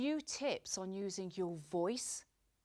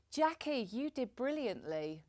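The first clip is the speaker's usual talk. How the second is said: higher lift on JACKIE, then drop away; less sincere praise; 3 semitones higher than usual. Shown as a demonstration. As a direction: praise tossed off with a high "Jackie". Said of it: "it probably doesn't look that sincere".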